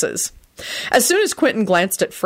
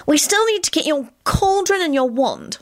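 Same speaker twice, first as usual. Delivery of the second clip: higher, fretting mother's voice; worried; 11 semitones higher than usual. Acted. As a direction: fuss over it anxiously. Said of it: "Solange said worriedly".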